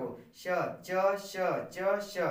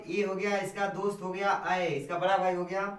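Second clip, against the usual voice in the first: full energy; 3 dB louder than usual. Real, not acted. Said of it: "full energy के साथ".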